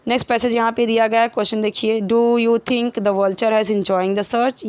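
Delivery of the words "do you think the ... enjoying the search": slow, even classroom dictation; slow read-aloud. Acted. Teacher reading a textbook question to the class, slowly. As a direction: read each word out slowly for students.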